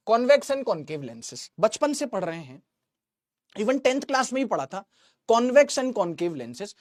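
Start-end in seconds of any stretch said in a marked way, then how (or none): 0.1-1.5 slow drawn-out. Shown as a demonstration. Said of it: "drawn out teaching phrase". 5.3-6.7 slow drawn-out. Shown as a demonstration. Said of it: "repeats slowly".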